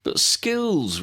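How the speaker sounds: high, indignant protest. Acted. Ron protesting to Ginny, high and indignant. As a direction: Ron objects loudly.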